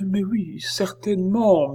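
high-pitched, timid assent; murmured agreement. A narrator's reading. Oliva backs up the stranger's story, murmuring. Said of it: "murmura Oliva".

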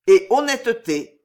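a hint of theatrical Hamlet. A narrator's reading. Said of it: "dit le comte comme Hamlet".

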